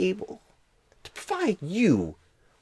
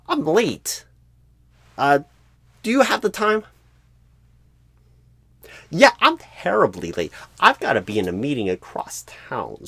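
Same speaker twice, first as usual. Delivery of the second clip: louder, hurried apologies; panicked goodbye, louder; flustered rush; 6 dB louder than usual. Acted. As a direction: babble like you're late and must bolt. Recruiter panics about being late.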